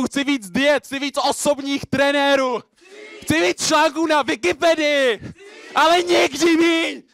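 very high, loud, relentless chant; frenzied greedy crescendo; shouted slam climax. Acted. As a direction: yell out each demand on one hammering high pitch. Performs slam poem on stage.

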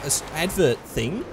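put-on Aussie accent, lilting up and down; terrible Australian accent. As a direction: do a hammy, bad Australian accent. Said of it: "stop doing that accent".

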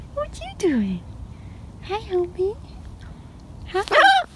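ordinary talk

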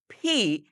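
ফি as aspirated P, made with both lips; two-lip P. Shown as a demonstration. Teacher modelling English P, two-lipped puffed ফি. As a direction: close both lips and puff out ফি. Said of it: "বলা হয় দুই ঠোঁট দিয়ে".

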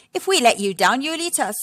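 a hint of suspicious father; Mister Warthog.

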